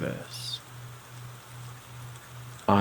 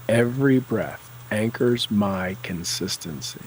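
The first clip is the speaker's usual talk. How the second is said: confident and determined. Shown as a demonstration. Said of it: "Say it with confidence and determination".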